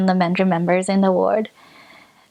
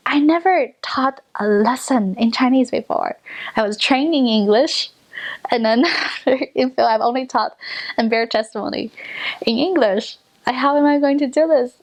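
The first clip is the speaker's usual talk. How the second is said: retold mild panic, pitch slightly raised; mildly freaked out; 4 semitones higher than usual. New missionary protesting she never taught in Chinese, mildly freaked out. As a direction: protest as if a touch overwhelmed. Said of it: "I totally freaked out".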